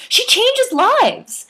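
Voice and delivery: very high, slow, drawn-out gush; Libby gushing over her trainer, very high and slow. A narrator's reading. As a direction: stretch it out, swooning over her. Libby defending Tracy Anderson.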